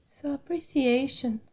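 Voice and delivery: unhurried meditation voice with long pauses; guided meditation. Real, not acted. Meditation teacher settling the class into the body, calm guided meditation. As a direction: guide them gently through the body, phrase by phrase.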